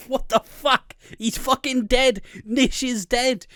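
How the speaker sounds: half-acted gasping shock at the telly; shocked outburst. Viewers shocked by the murder.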